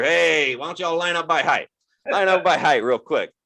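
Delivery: put-on a bored teacher rounding up kids; imitating a careless teacher; hungover teacher. Comedian voices hungover teacher.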